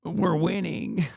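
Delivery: slow, dry, sarcastic victory line; deadpan sarcasm. Pretend. Streamer mocking fans' gloating, slow deadpan sarcasm.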